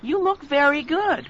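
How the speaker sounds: admiring. Acted. Complimenting Olive on her age.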